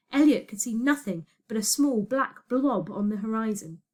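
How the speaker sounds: plain reading voice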